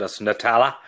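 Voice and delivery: Nutella in a Fermanagh accent. Shown as a demonstration. Co-host defends saying Nutella in a Fermanagh accent. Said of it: "try saying it with a Fermanagh accent".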